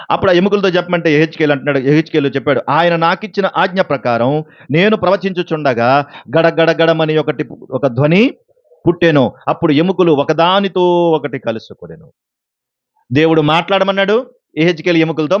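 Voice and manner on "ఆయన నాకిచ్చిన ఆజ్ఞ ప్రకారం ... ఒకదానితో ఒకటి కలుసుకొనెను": slow, measured Bible reading; scripture reading. Acted. Preacher reads Ezekiel's verse to the congregation, slow and solemn. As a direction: read the verse slowly and solemnly.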